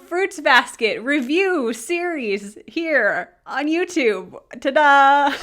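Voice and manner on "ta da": ta-da. Real, not acted. Announcing the series with flourish.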